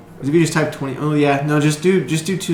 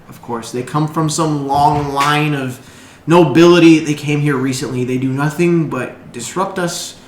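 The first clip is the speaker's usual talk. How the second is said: slow, grumbling villager voice; resentful shopkeeper. Acted. Stallkeeper venting to the heroes, slow and bitter. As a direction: complain about the nobles. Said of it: "So Frostwind looks at both of you and says".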